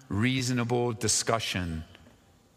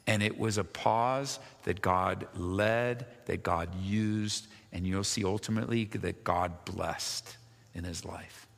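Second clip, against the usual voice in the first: slow soft emphasis; 3 semitones lower, 3 dB quieter than usual. Acted. Pastor slows on God's pause.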